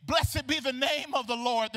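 high, slow quote of praise; retold jubilant cry. Recalling the same woman's praise, mildly cried out. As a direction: raise the pitch and stretch it out. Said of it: "that was screaming".

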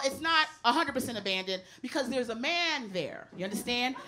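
ordinary delivery

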